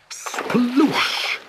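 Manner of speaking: high, long-drawn splash; splash sound word. A narrator's reading. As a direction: stretch it out like water going over. Narrator voices the boat's splash.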